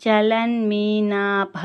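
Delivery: చలన్మీనాభ very slow with a strongly aspirated భా; aspirated bha. Shown as a demonstration. Teacher stressing the aspirate in చలన్మీనాభ, very slow. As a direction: breathe out hard on the భా of చలన్మీనాభ. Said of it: "భా అనేది మనం కొంచెము ఒత్తి పలకాలి".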